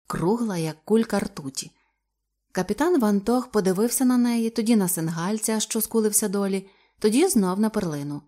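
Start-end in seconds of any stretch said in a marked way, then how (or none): none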